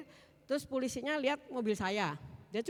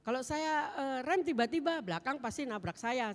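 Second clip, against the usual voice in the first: indignant argument; 4 semitones higher, 4 dB louder than usual. Retold or imitated. Arguing back in retold quarrel.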